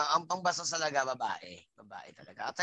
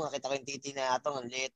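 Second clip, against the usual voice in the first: softer, hushed aside; mild mock whisper; retold whisper; 8 semitones lower, 9 dB quieter than usual. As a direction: tell it like a secret under your breath. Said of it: "pabulong pa".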